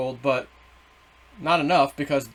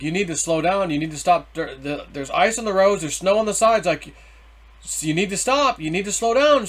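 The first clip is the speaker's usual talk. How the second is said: urgent retold warning, pitch climbing; insistent mock back-seat scolding; getting upset; 3 semitones higher than usual. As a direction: plead with a reckless driver, growing more insistent. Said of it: "now I'm starting to get upset".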